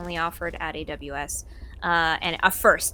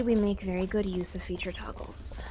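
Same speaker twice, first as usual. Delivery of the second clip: whisper; 5 dB quieter than usual. Real, not acted. Aside about feature toggles.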